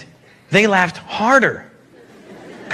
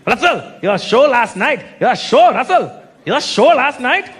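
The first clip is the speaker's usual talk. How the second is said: put-on Indian-accented fan gushing in short bursts; emphatic Indian accent. Fan praising last night's show, emphatic Indian accent. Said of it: "so emphatic with their compliments".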